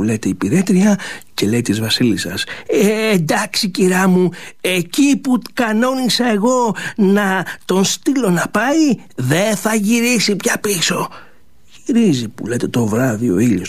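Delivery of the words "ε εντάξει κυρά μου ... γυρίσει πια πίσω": slow, satisfied conspiring voice; lightly voiced scheming maid; sly old servant. Servant reports to queen.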